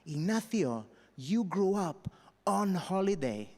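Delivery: lightly voiced incredulous Welsh friend; drawn-out teasing disbelief, slow; Welsh friends mocking. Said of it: "and they'd be like".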